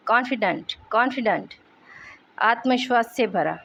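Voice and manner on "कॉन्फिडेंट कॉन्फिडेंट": कॉन्फिडेंट as CON-fi-dent, falling; dictionary-style कॉन्फिडेंट, CON-fi-dent; pronunciation demo. Shown as a demonstration. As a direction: model कॉन्फिडेंट clearly in isolation. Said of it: "और ये pronunciation".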